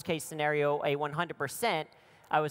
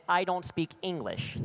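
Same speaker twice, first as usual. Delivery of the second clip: laughing translation. Retold or imitated. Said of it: "I said in Spanish".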